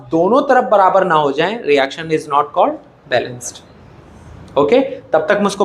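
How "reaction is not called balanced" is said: very slow, word by word, for notes; slow dictating voice; slow dictation. Shown as a demonstration. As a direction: spell out the rule slowly. Teacher dictating the rule.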